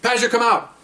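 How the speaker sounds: high barked order; shouted command. Retold or imitated. Officer commanding the suspects to toss the keys. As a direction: order them like the officer in charge. Police commands during felony stop.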